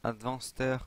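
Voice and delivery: English word in a French accent. Real, not acted. Gamer reading an English item name aloud, French accent. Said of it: "désolé pour mon, mon accent en anglais".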